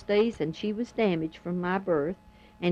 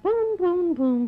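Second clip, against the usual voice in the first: booming out each blow on a raised pitch; imitated hammer blows; 8 semitones higher, 3 dB louder, slower than usual. Telling how he broke the windows, imitated hammer blows. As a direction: mimic the hammer with drawn, higher booms.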